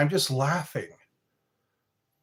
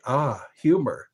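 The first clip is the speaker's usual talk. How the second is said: put-on German accent. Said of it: "he would say it with that German accent".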